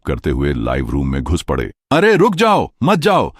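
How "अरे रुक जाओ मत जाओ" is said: very high, frantic pleading cry; shrieked protest. A narrator's reading. Streamer begging her departing viewers to stay, shrieking. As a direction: cry out in a high-pitched tantrum. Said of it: "पैर पटकते हुए चिल्लाया".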